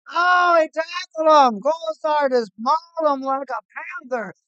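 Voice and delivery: loud growly big-cat roar; panther noise. Pretend. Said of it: "That's my panther noise".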